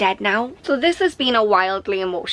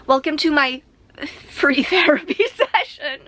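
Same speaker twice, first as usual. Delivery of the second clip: joking whisper; 5 semitones higher than usual. Real, not acted. Joking aside about free therapy.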